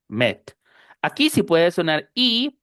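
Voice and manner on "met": "Met" with E as a short EH. Shown as a demonstration. Teacher showing E before consonant, short E. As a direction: say "Met" short and low, never MEET. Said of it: "Va a sonar E".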